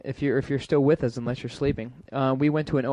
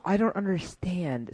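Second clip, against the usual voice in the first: slow, higher, lost beginner; mock baffled student; 5 semitones higher, 4 dB quieter than usual. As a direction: play a hopelessly confused classmate. Mimicking baffled beginners in the class.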